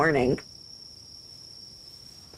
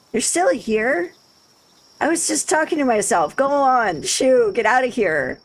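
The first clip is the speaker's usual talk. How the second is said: put-on Valley Girl accent; 5 semitones higher than usual. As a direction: shoo the player off in a Valley Girl voice. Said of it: "I went Valley Girl with her accent".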